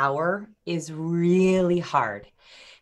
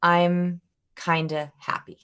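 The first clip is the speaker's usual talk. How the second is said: lukewarm; slower than usual. Shown as a demonstration. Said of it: "two very different verbal strategies".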